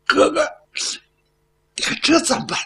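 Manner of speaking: 声音拔高又发虚，带点哭腔; 没了主意地向哥哥求救; 哭着求助. Acted. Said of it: "米氏就哭了". (带哭腔地向哥哥求助)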